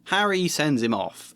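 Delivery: plain reading voice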